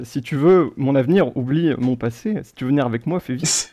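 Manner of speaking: deadpan, phrase-by-phrase recital; monotone lyric reading. Pretend. Quizmaster reads badly translated song to players, monotone. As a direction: read clumsy translated lyrics like plain text. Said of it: "vous les lire de manière un peu monotone".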